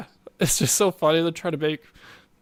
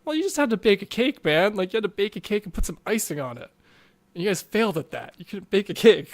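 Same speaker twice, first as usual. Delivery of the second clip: higher-pitched playful disbelief; mock incredulous scolding; 4 semitones higher than usual. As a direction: chide them as if it were easy. Acted scolding of failed bakers.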